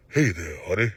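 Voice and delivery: lightly mocked sweet-talk voice. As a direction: coo every honey at your friend. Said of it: "Everything is honey to him".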